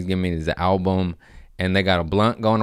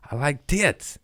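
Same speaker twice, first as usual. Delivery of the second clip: laughing, higher and slow; laughing admission; 8 semitones higher, slower than usual. Real, not acted. Laughing confession after apology.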